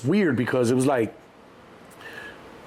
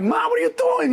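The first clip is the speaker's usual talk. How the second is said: panicked shout. Retold or imitated. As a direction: shout at mom from under the car. Son yelling from under car.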